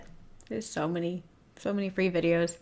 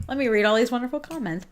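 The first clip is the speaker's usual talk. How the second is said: mock cheery deflection; 5 semitones higher, 5 dB louder, faster than usual. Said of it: "I'm like".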